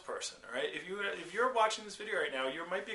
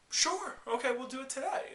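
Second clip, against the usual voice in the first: eager yes; 8 semitones higher than usual. Retold or imitated. Patient agreeing to surgery.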